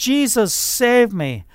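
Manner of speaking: put-on babyish, high, howling cry. Retelling how a salesman fell to his knees and cried out: imitating someone crying out. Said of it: "starts howling like a baby, crying out".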